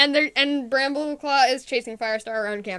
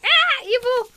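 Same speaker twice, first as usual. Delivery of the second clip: high-pitched pretend cry of alarm; mock alarmed cry; 10 semitones higher, 4 dB louder, slower than usual. Recalling the cat that cried evil, playful alarm. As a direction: cry out high, only in play.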